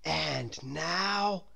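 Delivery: lightly voiced grown-up; lightly voiced guide; Mister Daydream. A narrator's reading. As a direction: announce the next trip. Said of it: "said Mister Daydream".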